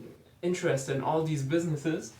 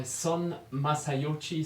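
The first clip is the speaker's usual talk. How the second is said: put-on slow, careful Japanese accent on the name; slower than usual. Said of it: "sorry for my very bad Japanese accent".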